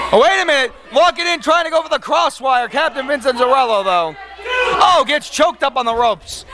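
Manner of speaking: excited ringside play-by-play; wrestling commentator. Acted. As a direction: call the action like a wrestling announcer. Calls the match play-by-play.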